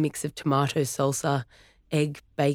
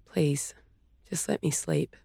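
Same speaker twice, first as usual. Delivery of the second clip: whispering; 4 dB quieter than usual. Acted. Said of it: "she whispered".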